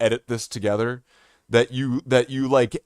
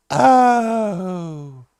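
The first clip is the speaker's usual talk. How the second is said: disappointed oh; 4 semitones higher, 4 dB louder than usual. Retold or imitated. Stranger disappointed.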